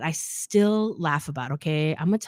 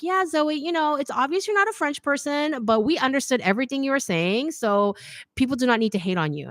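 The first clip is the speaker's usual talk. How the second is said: lightly voiced commenter, pitched higher; supportive commenter; 6 semitones higher than usual. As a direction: imitate a reassuring fan in a higher voice. Voicing nice commenters' supportive replies.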